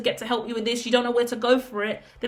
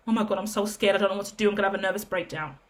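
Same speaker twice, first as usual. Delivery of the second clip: lower, softer, fast nervous rush fading away; a light imitation of someone close to breakdown; mock frightened babble; 3 semitones lower, 4 dB quieter, much faster than usual. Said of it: "anxiety and panic attacks".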